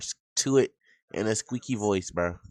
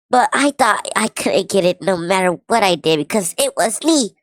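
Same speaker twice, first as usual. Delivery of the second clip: put-on a higher squeaky girlish read; mocking her apology in a cute pitched-up voice; 3 semitones higher than usual. Streamer reading his ex's apology aloud, mock squeaky e-girl voice. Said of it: "Let's read it in this voice".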